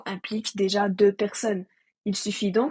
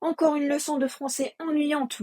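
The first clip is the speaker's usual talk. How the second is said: mock bored student; 3 semitones higher than usual. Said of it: "vous dites-vous".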